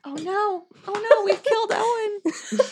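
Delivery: high-pitched, laughing cry of dismay; mock horror breaking into laughter; laughing mock alarm. Real, not acted. Friends teasing a player who is cracking up, laughing alarm.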